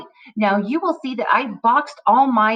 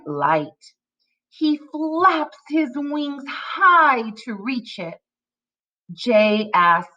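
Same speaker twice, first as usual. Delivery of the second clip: slow, expressive read-aloud with pitch swings; very slow story-time reading with acted dialogue; reading to children; much slower than usual. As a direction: read each phrase distinctly for young readers. Reads decodable story to children.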